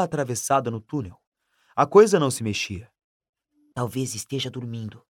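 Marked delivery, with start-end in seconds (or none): 3.7-5.0 hushed whisper. Acted. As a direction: whisper it tensely.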